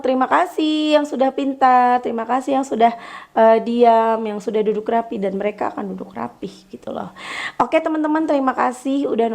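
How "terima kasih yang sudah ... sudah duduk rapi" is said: a touch of gentle praise; praising teacher. Retold or imitated. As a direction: thank the class kindly. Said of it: "ketika aku bilang".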